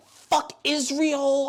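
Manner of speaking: very slow, drawn-out mock slogan; imitating protesters, slow and drawn out. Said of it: "niggas is like".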